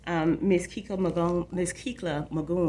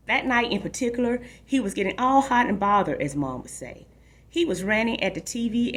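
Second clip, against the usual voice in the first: story narration. A narrator's reading. Reads a novel aloud.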